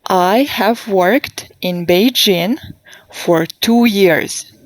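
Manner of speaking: slow, clear model sentence. Shown as a demonstration. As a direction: say it slowly for students to repeat. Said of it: "please repeat after me".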